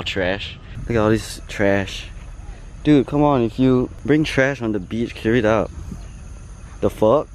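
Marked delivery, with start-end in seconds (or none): 2.8-7.3 exasperated, louder telling-off; annoyed scolding. Real, not acted. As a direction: scold the litterbugs. Scolds litterers on beach.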